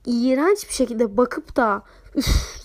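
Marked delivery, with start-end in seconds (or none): 2.2-2.6 sharp scoffing "üf"; imitated scornful puff; dismissive huff. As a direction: huff in mock irritation, imitating someone.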